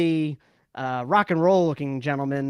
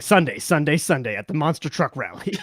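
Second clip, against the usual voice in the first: monster truck announcer; 3 semitones lower than usual. Retold or imitated. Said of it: "Definitely an announcer going".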